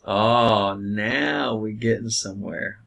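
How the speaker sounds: lightly voiced, slowed knowing Donkey; a hint of smug Donkey, drawn out; smiling Donkey line. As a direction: savour it with a sly smile. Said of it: "Donkey smiles and says".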